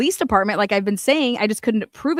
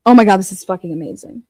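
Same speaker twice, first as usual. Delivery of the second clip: excited; 6 dB louder, faster than usual. Real, not acted.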